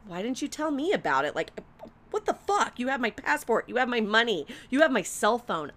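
high-pitched acted exasperation; heated retold complaint; indignant scolding. Acted quarrel with friends.

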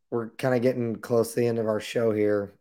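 hoarse, worn-out voice; raspy voice. Real, not acted. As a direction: talk through a sore, raspy throat. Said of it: "my really raspy voice".

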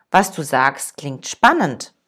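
the master answers unhurried and steady; calm. Acted. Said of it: "erwiderte dann ruhig".

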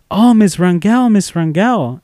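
a hint of excited children; excited kids. Kids greeting the teacher at back to school night, lightly imitated excitement.

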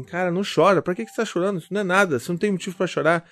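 impatient father scolding his crying son; scolding parent. Retold or imitated. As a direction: snap at the kid to stop crying. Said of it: "chegar pro teu filho e falar assim".

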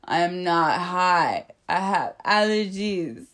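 slow, deliberate retold protest; emphatic denial. Accused kid telling mom it is allergies, slow and emphatic. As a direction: space the words out firmly.

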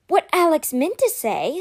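gently smooth over hurt feelings; softened, careful explanation; gentle. A narrator's reading. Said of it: "Sky said gently".

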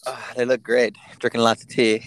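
failed attempt at a British accent. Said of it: "the way you just tried to do a British accent failed".

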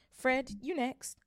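mother. Acted. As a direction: call each son in turn. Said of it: "the plump woman said".

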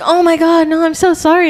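high, laughing flustered apology. Retold or imitated. Cashier apologizing to the customer, laughing and flustered. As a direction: apologize through embarrassed laughter. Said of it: "I was like".

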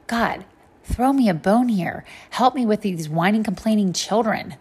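lightly acted plea, slow and drawn out at first; Moses's pleading cry. Moses cries out to the Lord about complaining children, mock pleading. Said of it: "Then Moses cried out to the Lord".

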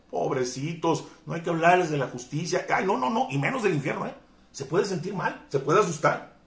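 high, whiny mock pity. Preacher mocking timid pastors who fear upsetting people, high whiny mock pity.

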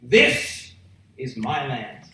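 falling, measured declaration; lion's territorial claim. Acted. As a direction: hit "this", then settle down firmly. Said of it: "What that roar is saying is".

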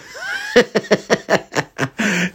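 long high giggle; real burst of high laughter; laughing. Real, not acted. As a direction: crack up at the memory. Laughs after friend's quoted warning.

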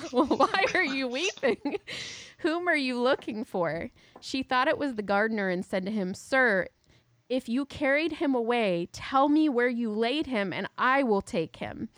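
dramatic Bible reading. Acted. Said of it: "Jesus said to her".

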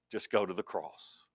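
hushed, heartfelt; soft, quiet plea. Real, not acted. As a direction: drop the voice low and soft. Repeated softly for emphasis.

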